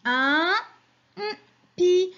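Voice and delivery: UN, pause, hummed N, then PI; missing syllable masked. Shown as a demonstration. Teacher quizzing children on a picture word, N hummed as placeholder. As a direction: hum N where the syllable is missing, finish firmly on PI. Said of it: "il manque la syllabe".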